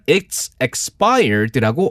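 slow teaching model. Shown as a demonstration. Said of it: "유효 기간이 만료됐으면".

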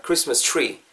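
"tree" said like "chree"; tr as chu. Shown as a demonstration. Teacher giving an example word, "tree" starting like Korean "추". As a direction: open "tree" in "Christmas tree" with a ch. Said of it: "약간 좀 우리말의 추 정도로 발음해주세요".

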